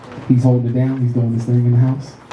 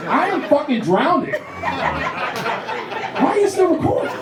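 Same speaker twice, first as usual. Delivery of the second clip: high-pitched outraged plea; hammed-up cry of someone drowning; mock drowning protest; 11 semitones higher, slower than usual. Acts out drowning, protesting being recorded.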